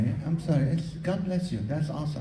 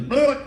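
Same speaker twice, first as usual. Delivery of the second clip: a higher, louder mock fridge rumble; fridge noise imitation; 8 semitones higher, 3 dB louder than usual. Comic imitation of a fridge noise. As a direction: play the fridge that waits until bedtime, mock noise. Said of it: "fridge ... goes".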